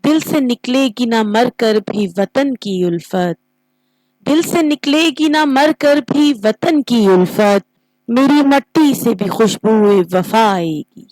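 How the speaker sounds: expressive poetry recital with rise and fall; verse recitation. Shown as a demonstration. Teacher showing students how couplets are recited, expressive verse recitation. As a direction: recite the couplet with feeling, lingering on line endings. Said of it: "آواز میں اتار چڑھاؤ اور خوبصورتی لائی جاتی ہے".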